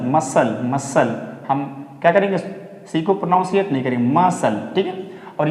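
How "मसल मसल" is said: मसल said as "mussel", no k sound; silent c. Shown as a demonstration. Teacher drilling muscle for students, careful. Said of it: "इसको नहीं बोलेंगे मसल".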